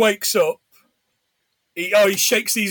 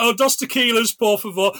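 put-on flat English tourist accent in Spanish; English deadpan accent; 4 semitones higher, 4 dB louder than usual. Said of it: "proper, like, English deadpan accent".

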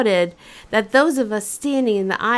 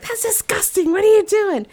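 disgusted mom; 13 semitones higher than usual. Retold or imitated. Mom scolding the drivers, high disgusted outrage. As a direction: scold the room like a disgusted mother. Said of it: "Mom's like".

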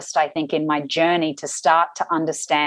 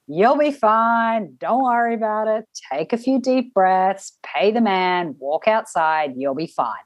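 calm voice; 4 semitones higher, slower than usual. Retold or imitated. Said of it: "it was just really calm".

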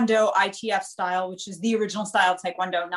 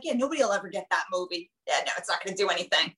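quick, softer teasing sarcasm; mock sarcasm; 2 semitones lower, 4 dB quieter, faster than usual. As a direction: rattle it off, needling him. Mocking the teacher's doubts.

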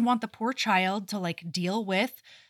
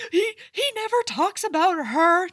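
higher, small hurt voice; plaintive; 8 semitones higher, 3 dB louder than usual. Retold or imitated. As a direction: Edith confiding, a little wounded. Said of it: "Edith's like".

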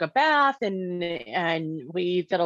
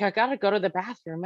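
flat sleepwalker's drone; even, toneless sleepwalking murmur; monotone; faster than usual. Retold or imitated. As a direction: say it like you're half asleep. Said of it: "like, monotone, almost a sleepwalking".

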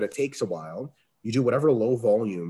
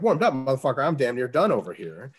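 louder, raised indignant comeback; indignant retort; 4 semitones higher, 5 dB louder than usual. Retold or imitated. Lifter snapping back at someone asking if he's warmed up, loud and indignant. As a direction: fire it back, offended.

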